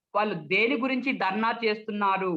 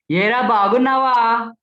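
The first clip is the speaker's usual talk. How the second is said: loud, forceful greeting; forceful, brisk; 9 dB louder, slower than usual. Shown as a demonstration. Speech trainer demonstrates a brisk greeting, loud and forceful. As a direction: call it out hard and loud. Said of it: "వేగంగా".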